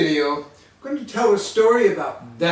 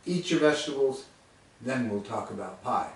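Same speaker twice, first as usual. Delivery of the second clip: low, stern order; stern mom; 4 semitones lower, 4 dB quieter than usual. Retold or imitated. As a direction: lay down the law like a mother. Waitress orders him.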